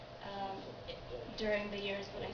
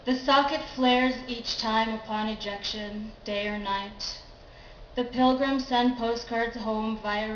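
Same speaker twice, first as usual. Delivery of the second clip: measured poem recital, each new phrase opened strongly; poetry reading; 6 dB louder than usual. Acted. Poet reads Doris to an audience, measured recital. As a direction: read it as verse, launching each line louder then easing off.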